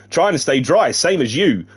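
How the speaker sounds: lightly put-on Irish woman's voice; a hint of a faked Irish accent; slightly lilting attempt at Irish; bad Irish accent. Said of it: "I'm sticking with this now".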